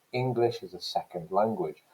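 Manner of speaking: English as a second language, main stresses on Eng- and sec-; stress-timed rhythm. Shown as a demonstration. Lecturer showing students the two main stresses, stress-timed. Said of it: "I'm putting the stress here on ing".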